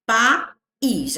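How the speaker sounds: "País" split as pa, then IS; two clear syllables in "País", pa-IS; distinct vowels. Shown as a demonstration. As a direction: sound the a and i of "País" separately. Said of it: "o I tem som distinto".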